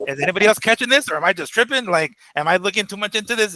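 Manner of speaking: half-joking, can anyone else hear this; incredulous. Retold or imitated. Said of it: "We're like".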